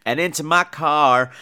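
high, loud, slowed cry at the earworm; mock exasperated yell. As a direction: shout it up high, begging the song to leave. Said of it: "And I was like".

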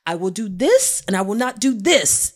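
imitating a partner's firm assurance; firm promise. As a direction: set out terms with punch.

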